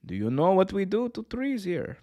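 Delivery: high, menacing mock Russian accent; accidental Russian accent. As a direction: slip into a Russian-accented villain's question. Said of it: "that was a Russian accent".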